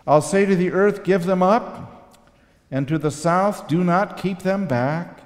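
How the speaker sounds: rising to loud proclamation, slowing at the end; scripture reading. Shown as a demonstration. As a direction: read it like a prophet's promise. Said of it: "And I read these words here".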